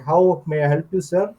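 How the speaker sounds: put-on light Indian accent, Apu style; quick jokey Indian accent impression. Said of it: "Like Apu accent going on".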